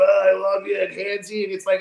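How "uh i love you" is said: loud, slurred mock drunk; drunk guy. Drunk guy at a bar gushing at a stranger, loud mock drunk. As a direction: ham up a handsy drunk, lightly. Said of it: "that drunk guy who gets a little too".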